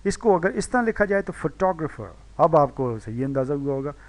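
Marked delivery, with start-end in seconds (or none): 1.3-2.2 फोटोग्राफर said fuh-TOG-ruh-fer; फोटोग्राफर with a light start and strong second syllable; stress on second syllable. Shown as a demonstration. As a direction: punch the टॉग in फोटोग्राफर. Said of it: "टॉग पे stress है".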